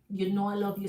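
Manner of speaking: lightly mocked lover's plea; pleading imitation. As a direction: mimic his sweet-talk. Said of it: "This pity poor me".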